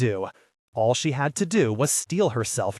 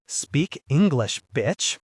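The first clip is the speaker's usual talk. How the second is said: slow, lightly rasped English order; a hint of a wounded man's rasp; 3 semitones higher, slower than usual. Injured mercenary snapping at Dolores, lightly rasped. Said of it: "he rasped".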